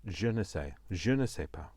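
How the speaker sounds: put-on playful French accent, words fumbled. Crafter trying French words on her viewers, French accent. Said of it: "I can do the accent".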